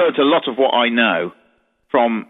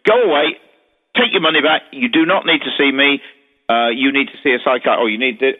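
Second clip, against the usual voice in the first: rude dismissal. Retold or imitated. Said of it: "he's very rude to people sometimes".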